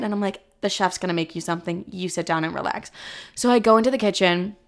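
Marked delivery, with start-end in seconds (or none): 0.6-2.9 softer, quick soothing; calm him down softly; hushed reassurance. Retold or imitated.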